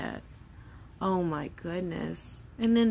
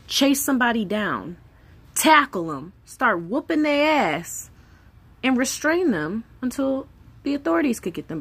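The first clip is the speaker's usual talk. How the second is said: louder, heated rush of resolve; fired-up inner voice; 4 semitones higher, 6 dB louder than usual. Retold or imitated. Mother imagining chasing a kidnapper, fired up and louder. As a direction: gear up like a mom ready to fight. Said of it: "Then I think".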